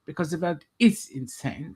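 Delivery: put-on German accent. Presenter explains the show's title, mock German accent. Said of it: "speaking in a German accent".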